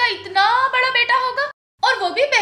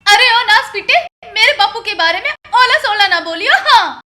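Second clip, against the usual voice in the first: scolding; 5 dB louder than usual. Acted. Wife scolding deaf husband.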